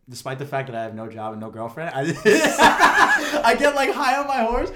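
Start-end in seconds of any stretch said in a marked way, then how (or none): 1.9-4.7 high laughing through the words; can't get words out for laughing; laughing hard. Real, not acted. Mocking his own vanity to friends, laughing hard.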